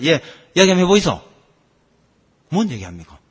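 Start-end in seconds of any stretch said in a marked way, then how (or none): 0.0-1.2 fast, louder Gyeongsang dialect reply, 이야기 falling; Gyeongsang son. Retold or imitated. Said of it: "아들 앉아가".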